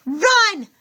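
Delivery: high, loud command; urgent shout. A narrator's reading. Annabeth orders them to run, high and loud. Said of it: "Annabeth said".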